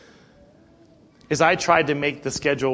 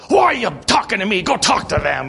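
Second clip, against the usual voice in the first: higher, louder mock snap at the pastor; imitated irritated retort; 6 semitones higher, 4 dB louder than usual. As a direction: toss the question back, annoyed, then wave him off. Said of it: "and he goes".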